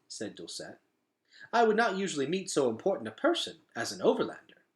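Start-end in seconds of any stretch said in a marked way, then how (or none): 1.5-4.6 shy. A narrator's reading. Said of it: "she said shyly".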